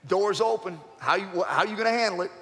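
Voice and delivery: a prodding voice from above; God's voice. Retold or imitated. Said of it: "And I remember God hit me".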